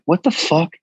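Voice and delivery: high, startled mock exclamation; shocked blurt. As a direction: imitate a blunt friend's disbelief. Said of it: "He's like".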